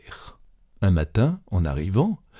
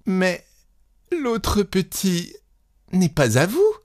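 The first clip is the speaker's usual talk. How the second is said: tearful asking; 10 semitones higher than usual. A narrator's reading. Young wife asks about the neighbour's boy, through tears. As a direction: ask through tears, not giving up. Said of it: "à travers ses larmes".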